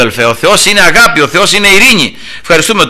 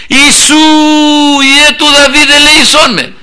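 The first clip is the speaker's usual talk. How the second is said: high, pleading shout; crying out; 10 semitones higher than usual. Acted. Blind man calls to Jesus over the crowd, desperate high cry. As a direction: call out long and high for mercy. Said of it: "πως φώναζε".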